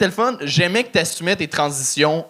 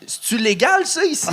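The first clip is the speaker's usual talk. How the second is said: put-on high, laughing copy of an Asian accent; imitated Asian accent; 12 semitones higher than usual. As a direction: mimic the comic's Asian accent, amused. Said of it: "en faisant l'accent, t'as dit".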